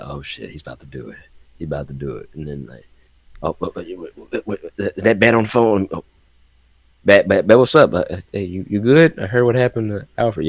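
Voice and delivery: a lightly voiced, hushed and nervous Jim Gordon; hushed cop checking on Bat after Alfred died; Gordon on the phone. Acting Gordon on phone to Batman.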